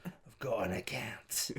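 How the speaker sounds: Cockney, slow. Shown as a demonstration. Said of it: "your Cockney".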